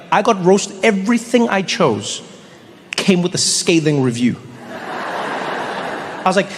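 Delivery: ordinary delivery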